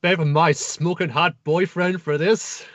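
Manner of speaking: slow, indignant complaint; hammed-up irritated goddess; a touch of put-upon diva; mock annoyed goddess. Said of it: "He's like".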